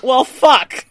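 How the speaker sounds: deadpan resignation. Retold or imitated. Noah's reaction acted in the recap.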